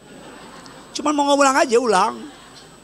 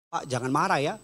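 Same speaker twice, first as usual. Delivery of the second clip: softer, lower, careful voice; quiet, low reassurance; gentle appeal; 6 semitones lower, 8 dB quieter than usual. Retold or imitated. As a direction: break it to him gently. Gently retold reply to the official.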